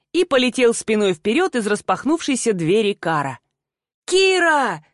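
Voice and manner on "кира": yelled name. A narrator's reading. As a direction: yell her name from the ground. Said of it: "завопил он".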